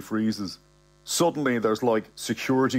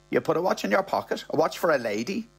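higher, quick, insistent accusation; brisk, higher female character; accusing woman; 6 semitones higher, faster than usual. Acted. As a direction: press the charge as a woman. Bernie repeating the accusation.

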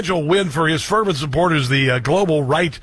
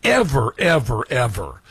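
mock innocence; 3 semitones lower, slower than usual. Real, not acted. Ironic denial of fraud claims.

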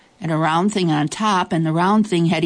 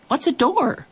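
puzzled creature voice; 9 semitones higher than usual. Acted. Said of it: "And then he said".

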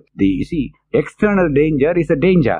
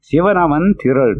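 verse recital; much faster than usual. Acted.

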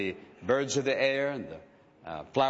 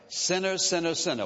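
"Sinner" hit higher each time it repeats; emphatic repetition; 4 semitones higher than usual. Shown as a demonstration. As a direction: hammer "sinner" as the offending word. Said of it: "What's the emphasis of that?".

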